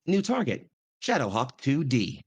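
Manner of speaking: a lightly done computerized announcer; flat ship-computer readout, steady and slow. Acted. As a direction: onboard computer announcing a new target, lightly voiced. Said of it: "the computerized voice will inform you".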